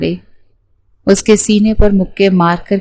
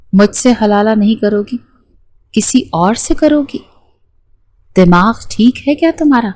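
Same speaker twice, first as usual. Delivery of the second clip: angry outburst; 2 semitones higher than usual. Acted. Husband angrily rebuking his bride, mildly acted anger. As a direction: scold her in sudden anger, lightly played. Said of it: "ازمیر کو ایک دم سے غصہ آ گیا".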